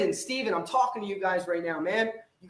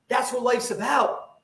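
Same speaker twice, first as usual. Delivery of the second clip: shout; 2 semitones higher than usual. Real, not acted. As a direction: declare it, drawn out. Motivational rant, shouting.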